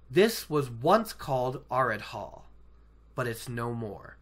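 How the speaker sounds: lightly voiced solemn guide; solemn storyteller. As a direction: intone it gravely, falling away at phrase ends. Acting Moiraine's solemn lore.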